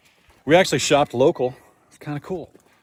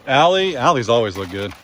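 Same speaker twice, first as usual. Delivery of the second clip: ordinary talk, nothing marked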